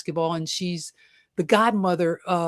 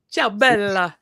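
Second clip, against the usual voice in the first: playful mock Latin lover, crooning "Ciao bella"; purring Latin lover greeting; Italian lover; 2 semitones higher, 4 dB louder than usual. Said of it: "that's the Italian lover right there".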